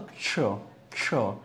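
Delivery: क्ष as a soft क run straight into श; correct क्ष sound. Shown as a demonstration. Teacher models the sound क्ष for learners, correct pronunciation. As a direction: isolate क्ष with no vowel before it. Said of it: "क्या होता है?".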